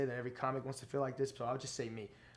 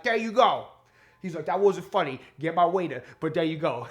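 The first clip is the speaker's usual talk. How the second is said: much higher, louder, different voice; Tracy Morgan impression; 5 semitones higher, 11 dB louder than usual. Comic imitating the star thanking the host, high and loud. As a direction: do a bad celebrity voice on purpose. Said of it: "Tracy Morgan impression".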